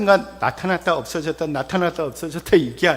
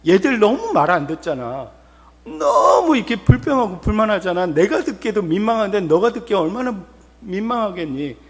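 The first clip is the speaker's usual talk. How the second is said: exasperated complaint, raised at the start; angry God; 3 semitones higher than usual. Acted. God complaining to Moses about the people, exasperated. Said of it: "얼마나 화가 났으면".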